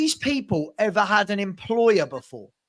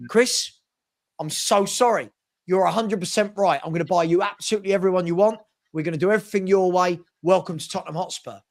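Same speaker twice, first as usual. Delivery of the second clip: fast, eager caving in, lightly voiced; mock grovelling Levy. Chairman caves to the new manager, hurried mock grovel. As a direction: rattle off promises like a pushover. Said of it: "Daniel Levy's gonna turn around and go".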